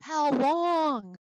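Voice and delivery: loud, high, drawn-out plea; crying out in question. Acted. Teacher voicing the prophet asking God, crying out. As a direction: belt it out, stretching the vowel. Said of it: "this is him asking".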